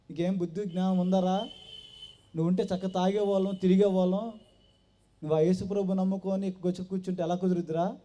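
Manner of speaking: loud angry scolding of a friend; retold shouting. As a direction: yell it at him like a drunk buddy scolding. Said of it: "అతను గట్టి గట్టిగా అరిసి".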